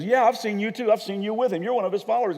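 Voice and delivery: high, loud finger-pointing challenge; heated accusation. Acted. Bystander who recognizes Peter, loud accusation.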